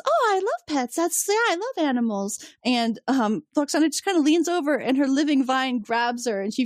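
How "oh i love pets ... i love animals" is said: high, gushing mock delight; light imitation of a keen guest; a guest gushes about pets; eager reply.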